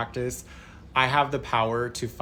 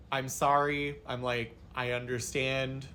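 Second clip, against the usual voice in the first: meek apology; 6 dB quieter than usual. Retold or imitated. Meek apology to angry clients.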